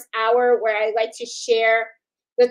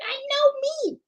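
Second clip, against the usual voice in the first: knowing self-tease. Retold or imitated. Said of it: "I'm like".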